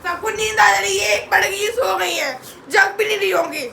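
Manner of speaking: loud, aggrieved jibe; angry sarcasm. Real, not acted. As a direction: complain bitterly at full voice. Rails at family for sleeping.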